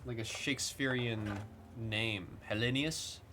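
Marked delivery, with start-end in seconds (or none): 2.5-3.2 pad Hellenius out with extra syllables, unsure. Shown as a demonstration. Streamer over-pronouncing a player name, unsure. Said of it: "I'm adding, like, three extra syllables there".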